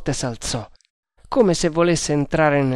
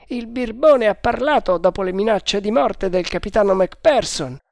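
a higher voiced guard, confident; overheard guard; 7 semitones higher, 3 dB louder than usual. A narrator's reading. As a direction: play the first guard, sure of himself. Guard gossiping. (guardia sicura di sé, voce più alta)

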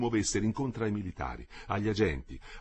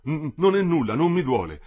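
stammered start, raised insistent voice; strained denial; 6 semitones higher, 7 dB louder than usual. A narrator's reading. The wounded German tells those holding him, strained denial. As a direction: insist loudly that you are unhurt. Wounded man denies his pain.

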